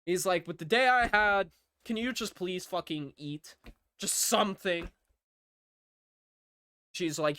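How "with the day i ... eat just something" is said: higher-pitched, fed-up plea; exasperated pleading. Acted. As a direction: plead as if at the end of your patience. Tired brother pleading with sister.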